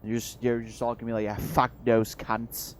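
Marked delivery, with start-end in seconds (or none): 1.2-2.8 put-on mild go at a British accent; a slow, lightly put-on British accent; mock British accent. Player imagining everyone's reaction to the Irish, mild mock British accent. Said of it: "can't decide whether I wanna do the actual accent".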